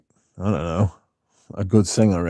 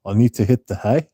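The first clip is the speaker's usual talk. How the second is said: Australian accent with a rising end; Australian-leaning accent, lifted at the end. Shown as a demonstration. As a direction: lightly attempt an Australian accent. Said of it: "I think that's more Australian".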